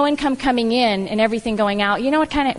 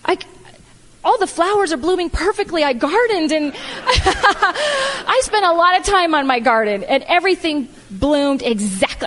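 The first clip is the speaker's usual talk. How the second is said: mock whiny self; 5 semitones higher than usual. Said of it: "I was like".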